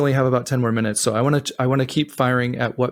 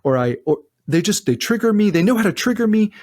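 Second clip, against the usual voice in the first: whiny client quote; 5 semitones higher than usual. Retold or imitated. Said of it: "I hear so frequently".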